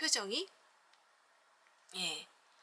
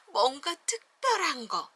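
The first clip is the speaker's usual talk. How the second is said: growing excitement; 3 semitones higher than usual. Shown as a demonstration. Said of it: "감정 표현도 점점점 이렇게".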